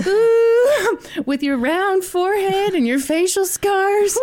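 high, hammed-up seduction through laughter; sexy voice. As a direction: flirt while laughing. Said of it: "This is my sexy voice".

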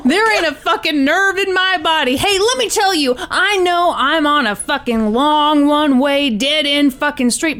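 lightly acted cocky gunman, stretching the swearing; Tony. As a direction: play the defiant caller, animated but not shouting.

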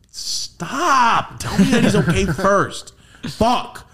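high, pleading outburst, half laughing; squealed exasperated alarm; comic panic. Retold or imitated. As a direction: plead at high pitch to be reassured first. Retold panic about his brother.

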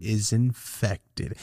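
very slow imitated pronouncement; doctor's drawn-out diagnosis. Doctor telling patient about the ear, drawn-out mock diagnosis. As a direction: drag out INFECTED, syllable by syllable. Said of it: "That's how he said it".

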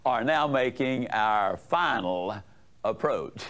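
low, slow pilot announcement; captain on the intercom, slow and low; deep resonant voice. Retold or imitated. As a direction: intone it deep and measured, like an airline captain. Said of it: "in that deep, resonant voice said".

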